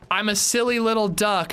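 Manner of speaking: high, sing-song silly voice; mock Laura Palmer. Laura Palmer telling her boyfriend she's silly, high mock voice. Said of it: "she goes".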